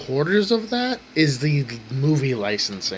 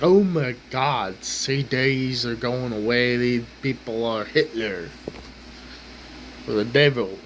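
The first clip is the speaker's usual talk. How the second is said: mock Southern accent. Mocking overdramatic fans of CDs in a slight Southern accent. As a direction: slip into a faint Southern accent, parodying a hysterical fan. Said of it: "I got a Southern accent right there".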